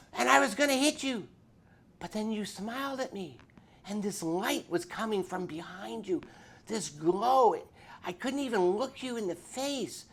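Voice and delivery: high and loud, a wound-up biker confessing his violence; agitated biker voice. Retold or imitated. Biker voiced in retold story.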